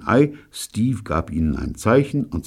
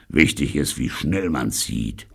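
growling. Acted. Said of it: "knurrte Sargnagel".

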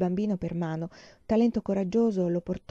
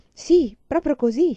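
hastily; 7 semitones higher, 7 dB louder, slower than usual. A narrator's reading. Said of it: "si affrettò a spiegare lei".

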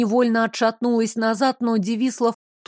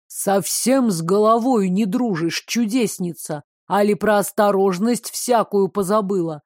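chilling voice. Acted. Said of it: "леденящим кровь голосом".

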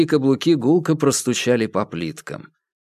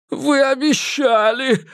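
much higher, slow, drawn-out whine; whining; 14 semitones higher, slower than usual. A narrator's reading. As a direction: whimper the reproach like a child. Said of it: "заныл Хэрот".

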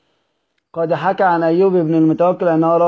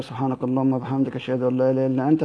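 much softer, low murmured dua; quiet closing prayer; 3 semitones lower, 6 dB quieter than usual. Real, not acted. Teacher ending the lesson with a softly murmured prayer. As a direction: fade into a hushed prayer.

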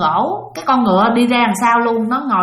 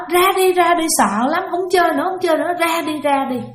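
imitating a scared toddler crying, pitched higher; higher, whiny child's plea, mock crying; 6 semitones higher than usual. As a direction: mimic a frightened little boy begging to stop. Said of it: "Nó nói hả".

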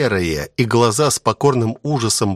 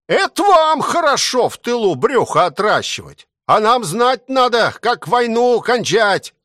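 angry heckling; 8 semitones higher than usual. A narrator's reading. Angry soldier heckles commissar.

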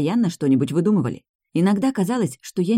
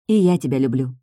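trembling voice; 2 semitones lower, 3 dB louder than usual. Acted. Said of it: "ответила я дрогнувшим голосом".

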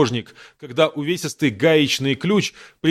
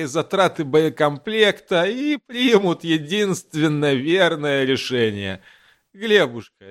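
put-on slow, unhurried old driver; drawn-out, calm old mechanic. Migalych voiced by narrator.

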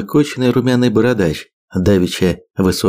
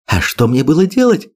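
shouting; 7 semitones higher than usual. A narrator's reading. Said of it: "снова закричала Вендла".

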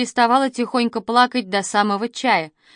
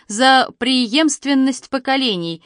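slow, louder, higher toast; dad proposing a toast at the family table; 5 semitones higher, 4 dB louder, slower than usual. A narrator's reading. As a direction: raise the glass with ceremony. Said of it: "воскликнул папа".

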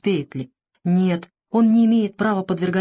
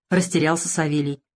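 plain reading voice

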